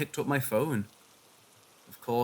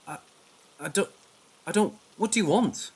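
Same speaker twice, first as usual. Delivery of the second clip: terrified; 4 semitones higher than usual. Acted. Grabbed, terrified, pleading.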